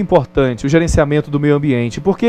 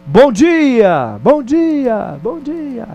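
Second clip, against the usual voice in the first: called greeting then echo; 6 semitones higher, much slower than usual. Retold or imitated. Father shouts a greeting over the cliff, echo fading. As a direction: call it out and let it echo away. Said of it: "e grita".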